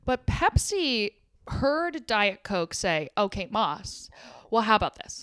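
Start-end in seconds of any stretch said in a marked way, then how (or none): 3.2-5.2 creature from the deep. Acted. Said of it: "Did you see that noise".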